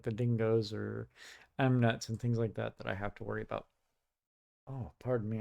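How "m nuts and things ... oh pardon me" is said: talking through hiccups; hiccuping between words. Real, not acted. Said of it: "I'm getting the hiccups".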